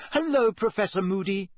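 high, loud call across the room; loud greeting. A narrator's reading. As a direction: call out to someone over a shoulder. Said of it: "Hermione said loudly".

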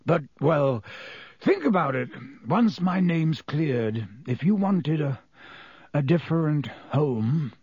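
a hint of Black, hesitant and halting; lightly voiced Black, tentative. Black offering Harry a home, hesitant. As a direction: feel your way carefully toward an offer.

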